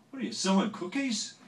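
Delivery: loud, high scolding demand; loud and high, like a star catching a trespasser; hammed-up angry celebrity voice, loud and high; gruff voice of a famous singer.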